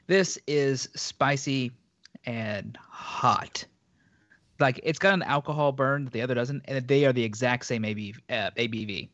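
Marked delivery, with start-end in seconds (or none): 0.1-3.6 strained voice after a drink went down wrong; slow, husky after the choke; hoarse after choking. Real, not acted. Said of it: "part of that went down the wrong way".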